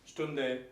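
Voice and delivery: Stunde with a faint final e; Stunde, the ending barely heard; weak ending. Shown as a demonstration. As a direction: say Stunde letting the end fade. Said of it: "with a really weak ending".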